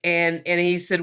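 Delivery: ordinary talk, nothing marked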